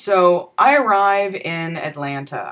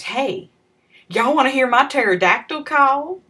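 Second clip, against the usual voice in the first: exaggerated Southern redneck accent; 8 semitones higher than usual. Tweaker Ronnie asking the boys about his call, in an exaggerated Southern accent. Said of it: "wasn't exaggerating his accent".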